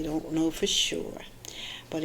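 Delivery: whisper. Real, not acted. Trailing off aside.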